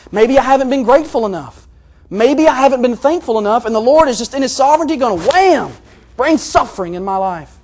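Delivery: loud, high, escalating worry; agitated self-doubt. Acted. Preacher fretting he was not thankful enough, agitated self-doubt. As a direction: work yourself up towards a big "wham". Voicing anxious self-blaming thoughts.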